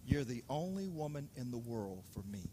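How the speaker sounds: low, soft mock-romantic line; Adam wooing Eve. Preacher playing Adam's first words to Eve, low and tender. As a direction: drop it low and hushed, like a sweet nothing. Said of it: "I believe Adam said this to Eve".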